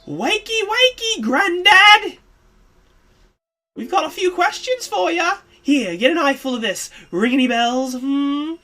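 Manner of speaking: loud, high rough wake-up yell; loud, taunting wake-up shout at the old man. Acted. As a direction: shake him awake with a bellow. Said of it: "yelled at him".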